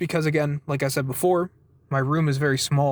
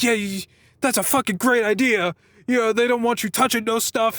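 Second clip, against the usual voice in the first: slightly higher voice for a random woman; a hint of a put-on stranger's voice, pitched up; imitated talkative stranger; 6 semitones higher than usual. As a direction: lightly mimic an opinionated passer-by. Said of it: "This woman, she just, like, starts talking".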